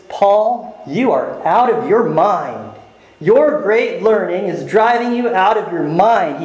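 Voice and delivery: slow, scornful charge that Paul is mad; mock the preacher as a madman; a hint of a scoffing governor; scoffing Festus.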